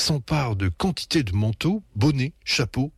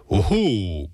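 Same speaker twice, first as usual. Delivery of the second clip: croaking oh-oh. A narrator's reading. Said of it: "croasse papa".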